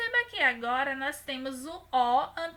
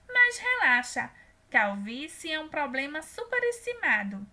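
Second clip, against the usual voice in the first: lightly voiced reassuring wife; 4 dB louder than usual. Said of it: "E Márcia diz".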